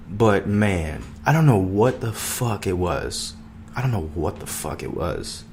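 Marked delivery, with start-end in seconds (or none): 3.8-5.4 dropped, softer and lower echo; softer repeat. Real, not acted. Repeating it to himself, softer and lower. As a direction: let it fall away to yourself. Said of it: "repeat of line 119".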